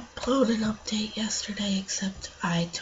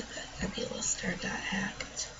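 whisper; 7 dB quieter than usual. Real, not acted. Sad news, whispered aside.

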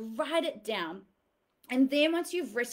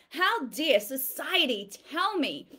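mild demonstrated outrage; a touch of defiant anger; mock indignation; 2 semitones higher than usual. Shown as a demonstration. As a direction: show them how to sound offended. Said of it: "get angry and go".

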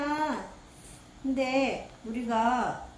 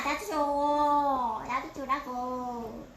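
whiny begging; much slower than usual. Pretend. Begs son for shake.

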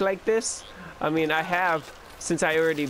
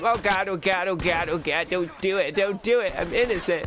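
hammed-up begging, slightly raised pitch; mock panicked pleading; 3 semitones higher than usual. Player voices an enemy facing the gun, mock panic. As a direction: play at frantically begging for mercy.

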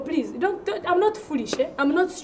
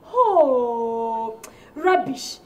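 laughing through a mock wail about rubbish; fake-cry the complaint, cracking up; mock lament; slower than usual. Collector moaning to his wife, laughing mock wail. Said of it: "tell your wife".

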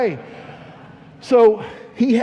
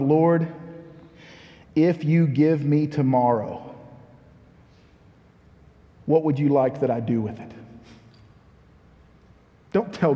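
humble prayer; 3 semitones lower than usual. Acted.

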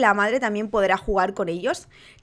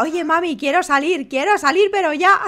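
put-on baby voice; 5 semitones higher than usual. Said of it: "La que diga".

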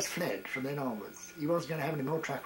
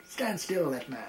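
officer snapping an order at a twitching soldier, louder on stand still; sharp military command, stand still louder and higher; barked parade-ground order; 3 semitones higher, 3 dB louder than usual. Retold or imitated. Officer on parade orders a twitching soldier, barked command. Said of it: "So he turned around and said".

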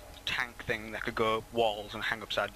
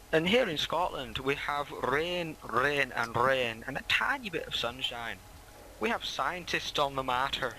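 mock Scottish weather report; 3 semitones higher than usual. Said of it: "he pretends he's Scottish".

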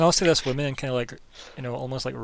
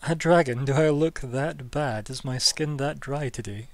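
mock-offended lady; 2 semitones higher than usual. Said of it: "GM voices woman".

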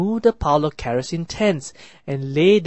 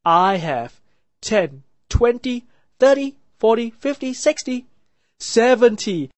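high, eager counting, louder; excited; 6 semitones higher, 5 dB louder than usual. A narrator's reading. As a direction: rattle it off with glee. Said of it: "the seventh brother said excitedly".

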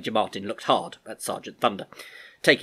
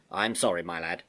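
consoling; 3 semitones lower than usual. Acted. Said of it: "putting his hand on Albert's shoulder to console him".

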